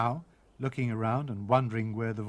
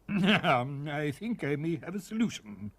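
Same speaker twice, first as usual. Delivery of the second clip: pompous parson; 2 semitones higher, slower than usual. Acted.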